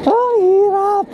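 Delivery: strained exclaim. Real, not acted. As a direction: drag it out, worn out from the climb. Exclaiming after the long climb.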